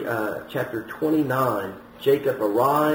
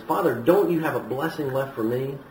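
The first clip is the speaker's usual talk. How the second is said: pleading, pitch climbing higher toward the end; lightly acted desperate begging; mock distressed plea; 6 semitones higher than usual. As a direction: plead as the distressed son, without real tears. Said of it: "he's greatly distressed and he's crying bitterly".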